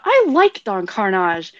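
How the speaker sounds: sudden, mildly emphatic confession; blurted out. Retold or imitated. Blurting a secret liking to a friend, abrupt and emphatic. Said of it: "I blurted out".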